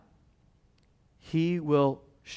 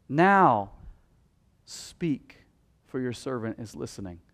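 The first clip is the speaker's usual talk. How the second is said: committed prayer. Acted. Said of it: "the right attitude is to say".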